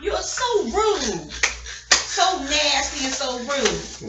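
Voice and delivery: loud slow scolding. Real, not acted. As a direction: drag out the scolding. Scolding Papa after call.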